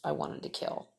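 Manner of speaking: breathless whisper of real anger; an angry whisper. Real, not acted. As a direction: drop to a whisper, seething. Anger at spirits, voice drops.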